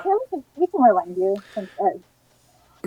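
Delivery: quiet, muffled, as if through a hand. Real, not acted. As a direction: speak from behind your hand, muffled. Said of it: "you're very quiet and muffled".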